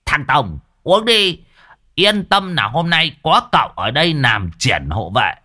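rowdy relieved celebration; whooping. A narrator's reading. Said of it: "rú lên".

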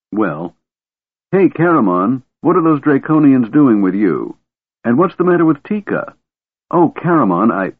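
put-on light, high, eager young voice; a curious Kender begging to see magic. Kender Tass calls out.

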